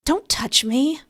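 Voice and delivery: high, loud breathy cry to push him off; breathy scream. Acted. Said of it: "I scream with a breathy voice".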